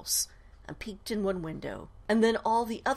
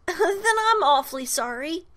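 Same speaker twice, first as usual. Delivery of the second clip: apologetic; 8 semitones higher, 5 dB louder than usual. Acted. Ghost apologises.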